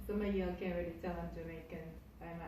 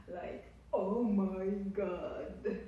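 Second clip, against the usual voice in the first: excited laugh; 4 dB louder, much slower than usual. Real, not acted. Excited about ten thousand views.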